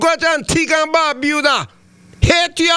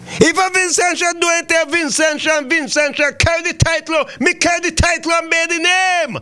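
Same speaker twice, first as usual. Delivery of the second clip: proud shout; 3 semitones higher than usual. Real, not acted. Host proudly declares his nationality.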